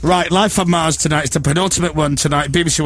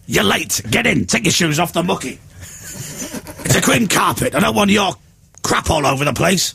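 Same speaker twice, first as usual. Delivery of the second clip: mock gruff; 3 semitones higher than usual. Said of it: "answer the door and go".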